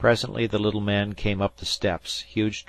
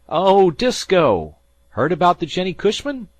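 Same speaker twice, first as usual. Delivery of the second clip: hailing through fog; 12 semitones higher, 12 dB louder than usual. A narrator's reading. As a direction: call out to the other ship. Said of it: "a voice hailed through the fog".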